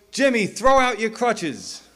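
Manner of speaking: high, loud, slow proclamation; drawn-out revival healer cry; faith healer command. Acted. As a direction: command a miracle from the stage.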